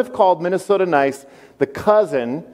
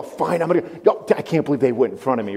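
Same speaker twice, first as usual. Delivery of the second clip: grumbling driver; 2 semitones lower, faster than usual. Pretend. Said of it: "four-way stop at Minnesota nice".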